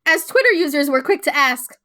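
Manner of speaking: loud, suppressed-laugh reading; barely straight face. Real, not acted. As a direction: read out loudly while holding back laughter. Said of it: "trying to say it with a straight face".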